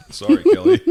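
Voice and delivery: giggling through a high apology; laughing. Real, not acted. Laughing apology after spilling crumbs.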